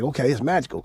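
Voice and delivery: said with a laugh, amused. Retold or imitated. Game laughing while retelling his reply. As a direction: chuckle through the words.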